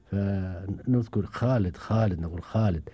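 خالد with a full, heavy خ each time; full kha. Shown as a demonstration. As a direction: stretch out خالد with a thick throat خ. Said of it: "الخاء مشبعة". (نطق خالد بخاء مشبعة)

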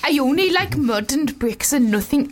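lightly attempted Welsh accent. Shown as a demonstration. Reading the brick eater's quote for her co-host in a tentative Welsh accent. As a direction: try it out in Welsh. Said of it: "let's try it in a Welsh accent".

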